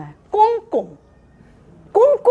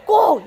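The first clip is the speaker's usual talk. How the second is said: 꼭 barked short, higher and louder; stress on 꼭; 5 semitones higher, 3 dB louder, much slower than usual. Shown as a demonstration. Teacher corrects parents, stressing 꼭 sharply. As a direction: punch the single word 꼭. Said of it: "여기는 꼭인데".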